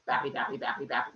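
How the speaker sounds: low, rhythmic drumming nonsense words; bopping noises. Acted. Storyteller imitating Hermes bopping a turtle shell, rhythmic bopping. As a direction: tap it out low in an even beat.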